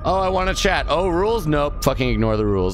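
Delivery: high, sneering mock voice of a rule-breaker; mocking whiny chatter. Streamer mocks a chatter who ignores the rules, high whiny sneer. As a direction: sneer it out like the brat in chat.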